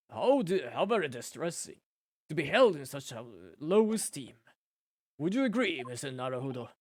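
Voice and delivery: lightly voiced sneering prosecutor, mock offended; haughty prosecutor. Prosecutor taunting the defense lawyer, lightly sneering. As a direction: drip a little mild disdain over each word.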